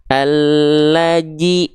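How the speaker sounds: ALLAJI slowly, with a J sound; jim replacing zal. Shown as a demonstration. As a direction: put an English-style j in place of dh in "allaji". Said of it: "dibaca menjadi huruf jim". ("allaji", zal dibaca menjadi jim)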